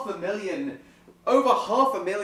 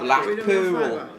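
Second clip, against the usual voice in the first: put-on northern accent. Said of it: "my northern accent".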